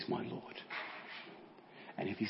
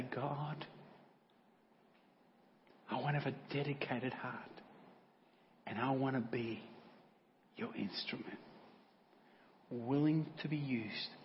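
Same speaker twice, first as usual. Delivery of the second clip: quiet prayer; 5 dB quieter, slower than usual. Shown as a demonstration. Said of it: "if we could today say".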